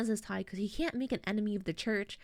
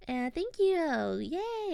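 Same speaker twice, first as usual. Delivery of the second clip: mock welcoming; 5 semitones higher, slower than usual. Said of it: "really welcoming to them".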